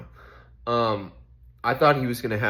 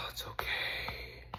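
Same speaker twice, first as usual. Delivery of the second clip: slow whispered comfort; a slow, hushed reassurance; soothing whisper; 12 dB quieter, slower than usual. Retold or imitated. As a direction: whisper it gently to yourself. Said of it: "Give yourself".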